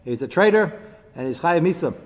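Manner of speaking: loud, high, hammed-up accusation; princes' accusers demanding his death, loud and high; accusers' charge. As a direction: prosecute him before the cabinet. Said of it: "They said".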